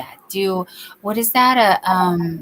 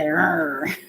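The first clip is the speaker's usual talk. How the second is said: imitating a growl; 4 semitones lower than usual. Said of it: "He said".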